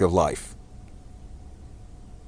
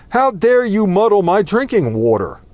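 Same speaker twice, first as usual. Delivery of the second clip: angry wolf; 11 semitones higher, 3 dB louder than usual. Acted. Wolf accuses lamb in fable.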